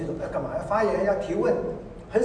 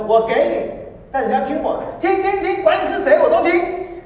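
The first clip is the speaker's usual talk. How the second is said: eerie voice; 13 semitones higher, 9 dB louder than usual. Retold or imitated. A voice speaks to the sister.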